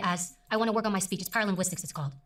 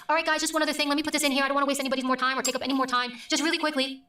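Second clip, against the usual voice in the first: higher-pitched, self-minimising aside to an audience; demonstrating an apologetic "just quickly" presenter; 4 semitones higher than usual. Shown as a demonstration. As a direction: squeeze it in as if you're wasting everyone's time. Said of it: "please don't do this".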